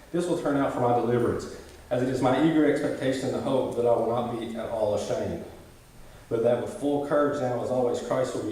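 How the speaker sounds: measured, steady Bible reading; scripture reading. Acted. Pastor reading Philippians to the congregation, measured scripture reading. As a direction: read the passage out with weight, line by line. Reads Philippians passage aloud.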